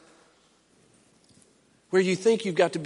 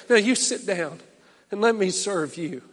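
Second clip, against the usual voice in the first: tender invitation. Retold or imitated. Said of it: "Christ shows up and says".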